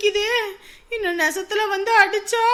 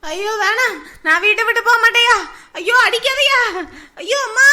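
sleep-talking wail; 4 dB louder than usual. Acted. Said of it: "கனவுல தான் பெணாத்திக்கிட்டு இருக்காளா".

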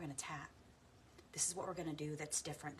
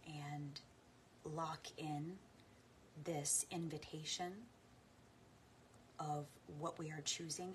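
guided meditation; 3 dB quieter than usual. Acted. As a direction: gently guide listeners inward.

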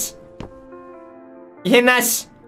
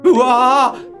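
startled yell; much slower than usual. Real, not acted. Startled by game anomaly.

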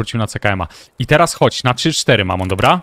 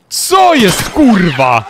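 surprised shout; 8 semitones higher, 8 dB louder, much slower than usual. Real, not acted. Shot rebounds, sudden surprise.

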